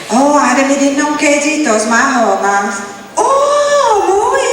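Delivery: shrieking high Creek woman's reply; fly way up on the Oh; Creek woman reacting. Creek woman reacting to news of the accident, shrieking high. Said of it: "one of them would say".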